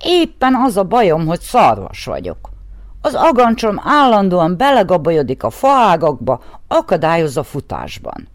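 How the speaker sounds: lightly voiced, indignant complaint; indignant deer. The deer indignantly complains to the horse. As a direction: protest about your antlers. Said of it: "méltatlankodott a szarvas".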